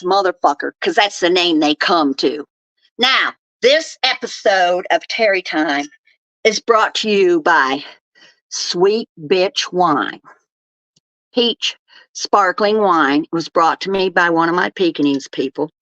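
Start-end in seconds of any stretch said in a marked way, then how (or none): 3.0-13.2 slow, deliberate sponsor announcement; mock sponsor read. Vlogger plugging a gifted wine to viewers, mock sponsor read. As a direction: announce the sponsor, drawing out the brand name.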